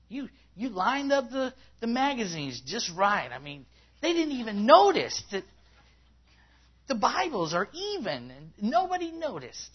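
high, put-on whine; hammed-up, high-pitched self-pity; whining. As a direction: whine like an unappreciated volunteer. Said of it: "When you whine, that's what you sound like".

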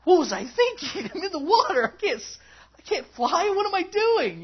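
high, loud, hammed-up panic; frantic mock yelling; worried panic. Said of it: "he's totally worried about his surrounding".

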